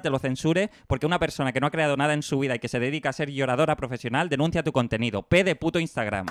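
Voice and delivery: prepared tirade in clean diction; crisp recited rant. Real, not acted. Presenting his P word to friends, crisp recited rant. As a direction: rattle off the rant, every word articulated. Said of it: "me encantaría tener tu dicción".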